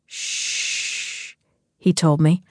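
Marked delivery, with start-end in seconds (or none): 0.1-1.3 breathy unvoiced shh to quiet her; whispered shush. A narrator's reading. Hushing her during intimacy.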